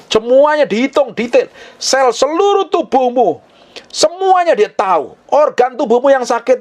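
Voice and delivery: high, ringing sermon delivery; full-force preaching. Real, not acted. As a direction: preach with fervent conviction, pitch held high.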